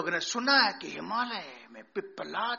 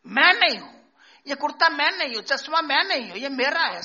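emphatic preaching; 7 semitones higher, 9 dB louder, faster than usual. Real, not acted. Emphatic teaching on "not I.

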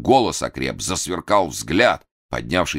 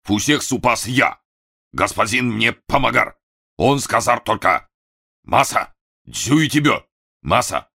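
put-on Masa protesting in a Japanese accent; обиженный японский акцент; offended retort; 6 semitones higher than usual. A narrator's reading. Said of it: "обиженно возразил".

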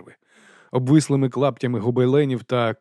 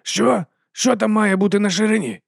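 ordinary delivery

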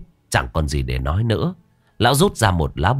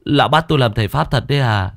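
higher, fast complaining, rising in protest; whiny young apprentice; 7 semitones higher than usual. Acted. Luận complains to old master.

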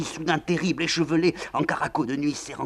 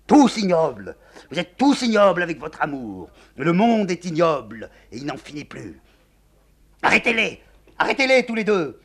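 raving madwoman; 11 semitones higher, 10 dB louder than usual. Acted. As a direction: rail at the whole world. Générale raves on.

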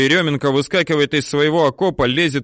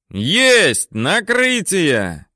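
higher, slow triumphant shout; 7 semitones higher, much slower than usual. A narrator's reading. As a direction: yell the hit from above. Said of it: "орёт сверху Тимофей Хайрулин".

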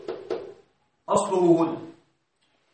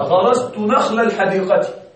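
slow example read; slower than usual. Shown as a demonstration. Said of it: "وانظر هنا".

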